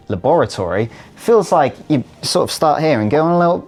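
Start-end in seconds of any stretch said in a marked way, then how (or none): 0.1-0.9 LABORATORY as "luh-BOR-uh-tory", stressed on BOR; Australian pronunciation. Shown as a demonstration. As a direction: lean on the second syllable of LABORATORY. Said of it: "Whereas the Australian version".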